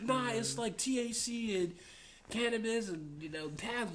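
put-on high girl voice. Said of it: "She's like".

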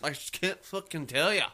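hammed-up Irish brogue; mock Irish accent. Co-host dodging the question, mock Irish accent. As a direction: put on a playful Irish lilt.

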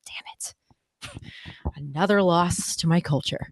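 hushed, defeated aside to herself; half-whispered inner lament. Retold or imitated. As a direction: whisper it like a private groan. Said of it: "on the inside, I'm like".

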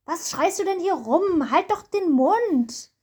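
a hint of an annoyed man, slow; scolding bystander. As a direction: tell him off, mildly stern. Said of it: "Soll ich einfach mal grad den Mann spielen".

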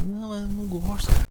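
mock complaint. Imitated voice objecting to noise.

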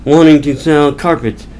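mildly exasperated mock rant; frustrated. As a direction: grumble as a fed-up salesman, lightly acted. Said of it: "frustrated with his day, and he's like".

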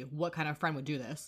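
pointed retort. Retold or imitated. He throws her question back at her, quiet pointed retort. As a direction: turn the question back, understated.

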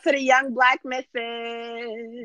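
drawn-out hype shout-out; slow shout-out. Acted. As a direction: stretch it out like a shout-out. Podcast shout-out.

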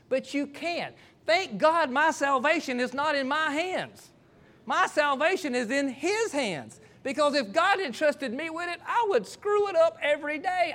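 high, slow, emphatic sermon delivery; impassioned preaching. Real, not acted. Preacher thanking God that salvation is not in his hands, impassioned preaching. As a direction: drive each phrase home to the congregation.

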